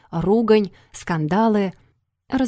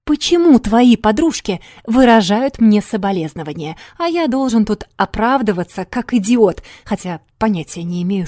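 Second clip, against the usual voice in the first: loud, indignant phone rant; angry shouting; 2 semitones higher, 7 dB louder than usual. A narrator's reading. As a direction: shout it, feeling made a fool of. Fiancé yelling on the phone.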